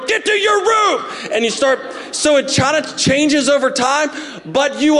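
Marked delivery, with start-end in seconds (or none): 0.1-1.1 mock parental scolding. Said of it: "and you start going".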